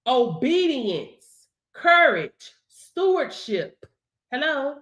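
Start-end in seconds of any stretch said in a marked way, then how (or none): none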